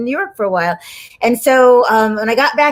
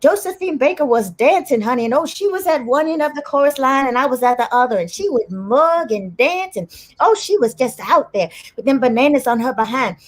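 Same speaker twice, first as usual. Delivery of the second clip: put-on animated old-chorus-girl storyteller, pitched up at first; reminiscing showbiz lady; 5 semitones higher than usual. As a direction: play an unknown entertainer fondly recalling the star, drawing out words. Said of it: "they would stand there and they go".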